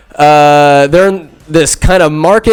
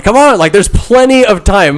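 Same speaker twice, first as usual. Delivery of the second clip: mock casual Rick; 6 semitones higher than usual. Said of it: "Rick's like".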